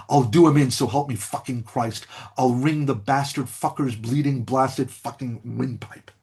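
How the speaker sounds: a mild reading of ferocious, sharply spoken curses; a lecturer reads the soldier's curse with mild mock ferocity; ferocious articulation. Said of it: "With ferocious articulation".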